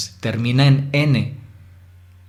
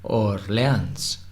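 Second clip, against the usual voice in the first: "Orleans" slowly in two parts, Or-leans; split into syllables; 3 semitones lower, 4 dB quieter than usual. Shown as a demonstration. Teacher dividing a foreign word, syllable by syllable. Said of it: "podemos separarla en dos sílabas".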